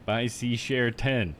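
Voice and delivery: slow, syllable-by-syllable reading; sounding it out. Shown as a demonstration. Streamer reading a suspicious chat message, sounding it out. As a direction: read each word separately, very slowly. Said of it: "making me do a, an accent there".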